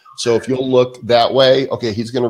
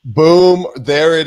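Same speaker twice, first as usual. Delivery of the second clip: high, loud triumphant boom; excited shout; 5 semitones higher, 4 dB louder, slower than usual. Real, not acted. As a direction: celebrate the win out loud. Number confirmed correct.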